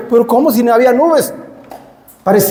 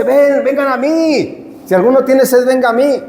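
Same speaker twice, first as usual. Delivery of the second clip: Jesus calling; 5 semitones higher than usual. Acted. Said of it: "No, dice".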